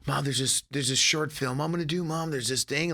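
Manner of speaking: put-on a kid bursting to share news; excited kid. Son eagerly telling his mom about a film, excited. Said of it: "I was so excited to tell her".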